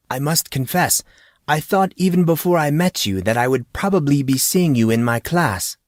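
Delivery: friendly teacher voice. Acted. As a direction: speak as an amused teacher. Teacher character dialogue.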